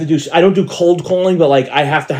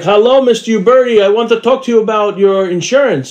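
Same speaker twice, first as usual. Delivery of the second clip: lightly voiced salesman, higher pitch; telemarketer; 5 semitones higher than usual. Insurance caller greeting his prospect, mock telemarketer. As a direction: imitate a cold caller's opening pitch.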